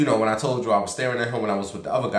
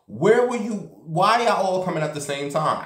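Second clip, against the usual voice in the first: high, incredulous where-were-you; exasperated disbelief; 8 semitones higher than usual. Retold or imitated. To the men all approaching at once, in high exasperation. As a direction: throw up your hands, pitched way up.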